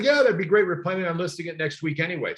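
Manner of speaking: mock-eager agreement; eager yes. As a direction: chirp the yes like a keen homeowner. Sellers eagerly agreeing, quoted.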